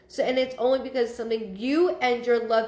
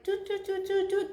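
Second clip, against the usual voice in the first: light, high string of toots; imitated toot noises; 9 semitones higher, 4 dB quieter than usual. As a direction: tick off a row with high toots. Imitates a row of sticker children.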